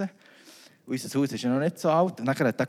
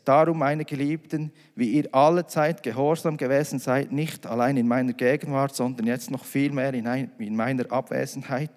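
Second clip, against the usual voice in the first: scripture reading. Acted. Reads Bible passage aloud.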